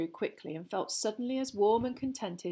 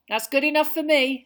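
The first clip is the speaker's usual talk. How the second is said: pleased and a little higher and louder; happy; 7 semitones higher, 11 dB louder than usual. A narrator's reading. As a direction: settle it gladly, leaning on enough. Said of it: "said Ron happily".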